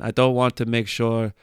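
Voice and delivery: put-on Danish accent, even pitch. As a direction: imitate a Dane speaking English. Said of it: "that's my best Danish accent".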